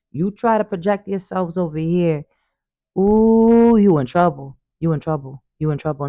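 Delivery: playful threat with a loud high ooh; sassy warning. Pretend. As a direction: warn the spirits off with mock sass. Warning bad spirits away.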